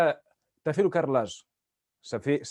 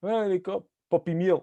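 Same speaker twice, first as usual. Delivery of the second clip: put-on northern Portuguese accent; 3 semitones higher than usual. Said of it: "je peux faire le son portugais comme ça".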